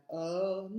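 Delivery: Orni- with the ni held long; "Orni-", slow, leaning on a long ni; stress on second syllable. Shown as a demonstration. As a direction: stretch out the I in "Orni-". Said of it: "sur la deuxième syllabe".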